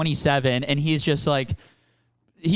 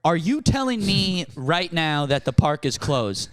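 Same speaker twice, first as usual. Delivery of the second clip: slow, mock-baffled needling; little stinker. Being a stinker to the cops, mock baffled. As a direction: play dumb to wind them up. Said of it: "just being a little stinker to the cops".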